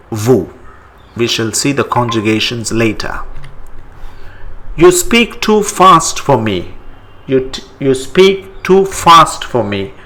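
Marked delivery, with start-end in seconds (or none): 4.8-9.9 You speak too fast for me, raised as a question cue; teacher prompt. Shown as a demonstration. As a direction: pose the sentence to translate. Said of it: "How do you say it in French?".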